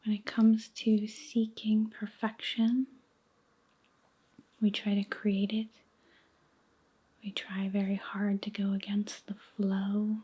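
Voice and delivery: slow, hushed meditation voice with long pauses; guided meditation. Acted. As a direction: guide them gently into letting go, near a whisper, unhurried.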